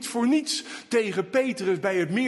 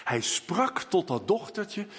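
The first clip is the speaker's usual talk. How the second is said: ordinary talk, nothing marked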